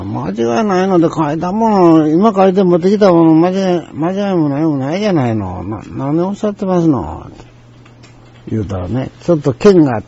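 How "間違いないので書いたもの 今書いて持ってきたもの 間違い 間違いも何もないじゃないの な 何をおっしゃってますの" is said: retold indignant comeback, starting high; mildly heated protest, raised pitch easing down; sharp retort. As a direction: answer back testily. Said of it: "向こうの言い方剣があったからこっちも言い返して".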